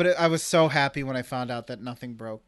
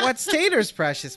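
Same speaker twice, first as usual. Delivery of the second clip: high, strained creature rasp; Gollum voice; 8 semitones higher than usual. Shown as a demonstration. Quoting Gollum on potatoes for his friend, mock creature voice. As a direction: croak it like Gollum over his precious. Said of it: "too much Yoda time".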